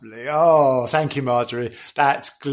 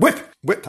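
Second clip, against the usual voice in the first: whip noises; 7 semitones higher than usual. Pretend. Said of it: "I'm just whipping round".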